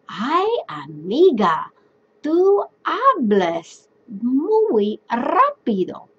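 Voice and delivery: slow, lightly teasing friend voice; friendly chat to a girlfriend. Shown as a demonstration. Teacher demoing Spanish to a friend, slow and playful. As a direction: stretch it out like gossip with a friend. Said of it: "Or I might say".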